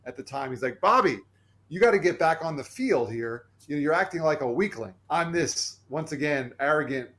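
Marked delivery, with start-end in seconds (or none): 0.8-5.0 raised, louder call across the field; retold trainer yell. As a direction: call him out loud like a trainer in front of the team. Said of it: "yells out to me".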